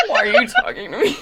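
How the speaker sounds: fast, breathless laughing quote. Retold or imitated. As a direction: rush it out while laughing.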